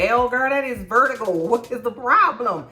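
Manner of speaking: high and loud, exasperated; high exasperated correction. Real, not acted. Scolding herself over the vitiligo slip, high and loud. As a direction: push it up high, fed up. Scolding her own mistake.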